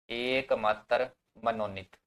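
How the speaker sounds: drawn-out word-by-word delivery; stretched syllables for note-takers; slow dictation. Real, not acted. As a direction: dictate it slowly, pausing between the words. Dictating slowly as students write.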